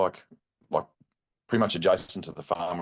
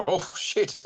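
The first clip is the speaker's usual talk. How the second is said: startled laugh; 11 semitones higher than usual. Retold or imitated. Stag suddenly appears, startled.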